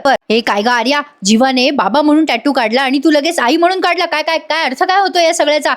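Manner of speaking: a lightly voiced angry wife; retold anger. Wife warning Arya the baby is hers, mild mock fury. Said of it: "Nandini चिडते आणि म्हणते".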